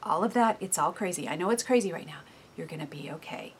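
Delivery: quiet your own soul gently; calming self-talk. Retold or imitated. Speaking softly to her own soul, reassuring. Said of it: "you're saying".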